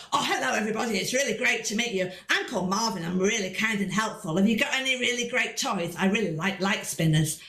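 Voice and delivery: lightly voiced enthusiastic little boy; a friendly boy puppet introducing himself eagerly; hint of an eager child's voice; Marvin. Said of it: "I'd give Marvin an enthusiastic little boy's voice".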